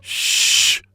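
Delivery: whispered shh; shushing. Acted. Patient shushing Curly in the intensive care unit. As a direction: hush him urgently. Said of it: "I shushed".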